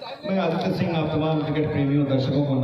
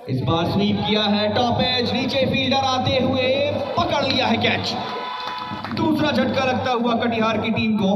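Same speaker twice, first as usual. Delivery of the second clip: excited cricket commentary; 9 semitones higher than usual. Real, not acted. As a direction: shout the catch with excitement. Catch taken, wicket falls.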